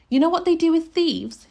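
loud, high menacing question; forceful, accusing demand; threatening. A narrator's reading. Mrs Driver threatens the boy.

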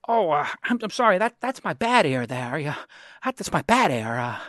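lightly voiced old-movie character; a hint of a halting, apologetic film-star voice; Jimmy Stewart. Radio host imitating a film hero with a bad ear, lightly voiced impression. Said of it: "Jimmy Stewart says".

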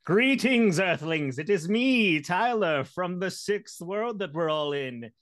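high loud alien robot greeting; old speech synthesizer. Pretend. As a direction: announce yourself like a synthesized alien. Alien greeting on podcast intro.

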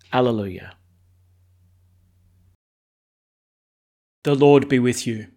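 measured, solemn Gospel reading; formal scripture reading. Acted. Priest reads the Gospel aloud.

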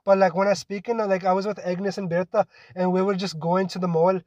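chatty put-on Scottish accent. Shown as a demonstration. Showing a friend their Scottish accent with everyday chat. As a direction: talk casually with a Scottish lilt. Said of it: "it's like my Scottish accent".

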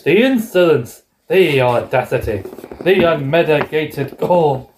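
slow, lightly voiced outraged Grinch. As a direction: drag out each insult. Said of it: "it's like the Grinch".

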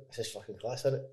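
soft, hushed retelling of a studio whisper; retold whisper. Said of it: "kinda whispering in the back".

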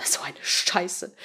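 slow, soft curse; muttered curse. A narrator's reading. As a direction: swear under the breath. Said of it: "Patricia fluchte".

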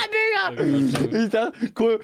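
high excited yell; excited shout. Real, not acted. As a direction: shout it still laughing. Bursts out after the prank call.

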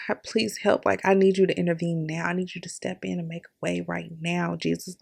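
soft, hushed plea for help; quiet desperate prayer. Retold or imitated. Praying alone in the bathroom, softly begging God to intervene. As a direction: beg God under your breath. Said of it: "I'm praying all of these things".

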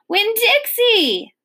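high, drawn-out cry of a name; screamed call. A narrator's reading. Girl calling her lost dog in rain, screamed high and long. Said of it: "I screamed".

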